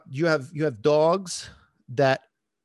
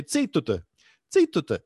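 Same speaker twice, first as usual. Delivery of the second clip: raised, falling order, second one louder; mock command; 4 dB louder than usual. Speaker silencing a voice-activated alarm clock, mock command. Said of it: "the alarm clock to shut up".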